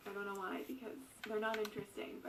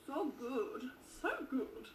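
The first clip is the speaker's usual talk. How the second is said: excited; 3 semitones higher, much slower than usual. Pretend. Vlogger tasting her favorite lemon drink, hammed-up gushing. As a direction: gush over the drink as if it's the best thing ever.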